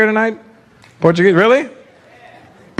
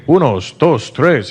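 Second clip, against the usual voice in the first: Spanish counting; 6 semitones lower, much slower than usual. Retold or imitated. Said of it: "Here's a Spanish guy counting".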